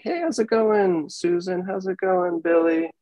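put-on bright, high friendly hello to each kid; cheery greeting. Relaxed principal greeting kids.

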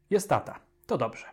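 cheery reassuring doctor; soothing optimism. A narrator's reading. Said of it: "pobrzmiewał kojący optymizm".

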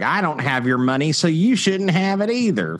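imitating an aggrieved complainer, pitch climbing; mock resentment. Mimics resentful cancel-culture tweeters.

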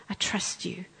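hushed, unvoiced whisper of trust; whispered prayer. Shown as a demonstration. Preacher whispering her trust to God. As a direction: breathe it to God like a secret.

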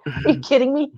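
retold indignant rant; mock furious. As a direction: imitate an outraged complaint, rattled off quickly. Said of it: "and he's furious".

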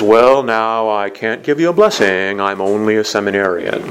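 lightly voiced modest refusal; priest impression. Seminarian gently refusing the woman's blessing, lightly impersonated. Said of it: "That's my best Father de la Durante impression".

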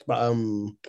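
talking while chewing cashews; mouth full. Real, not acted. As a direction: talk through a mouthful of nuts. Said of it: "I'm chewing cashews".

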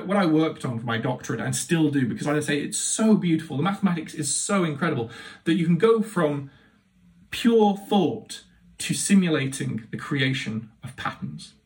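ordinary talk, nothing marked

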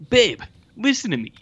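high, mock pleading to his wife; pleading babe. Husband retells begging his wife to listen, high mock pleading. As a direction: coax her like an exasperated husband.

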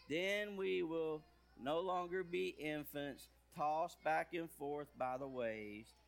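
slow, deliberate verse reading; scripture reading. Acted. Pastor reading the verse aloud to the children, slow and deliberate. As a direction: read it out slowly for the kids.

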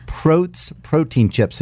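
host to listeners, slowly sounding out Prote's Protein Chips; slow, deliberate brand name. Shown as a demonstration. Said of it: "Say that three times fast".

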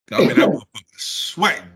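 laughing. Retold or imitated. Laughing while retelling awkward chat.

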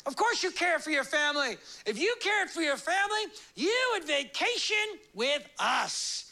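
hammed salesman voice; mock sales pitch. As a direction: lay on the guilt like an ad. Pitch video's guilt message.

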